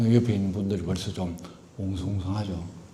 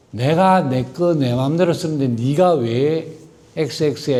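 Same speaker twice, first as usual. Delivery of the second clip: defiant retort; 3 semitones higher, 4 dB louder, slower than usual. Retold or imitated. Voicing selfish defiant attitude.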